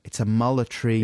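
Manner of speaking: South African attempt, "military" as "mullatry"; South African accent. Co-host retries the line, South African accent. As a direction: have another go at South African. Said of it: "sound perfectly South African".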